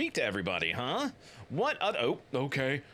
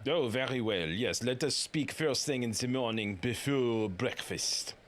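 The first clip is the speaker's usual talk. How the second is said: put-on French accent, drawn out; bad French accent; 3 semitones lower than usual. Frenchman agreeing to talk in the morning, bad French accent. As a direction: answer in a slow mock French accent. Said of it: "I don't have a good French accent".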